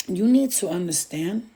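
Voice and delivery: slipping into a Spanish accent; accidental Spanish-accented channeling voice. Real, not acted. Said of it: "I'm doing a Spanish accent".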